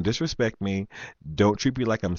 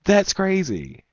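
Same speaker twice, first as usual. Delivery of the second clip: exasperated inner thought; 8 semitones higher than usual. Retold or imitated. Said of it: "I'm thinking".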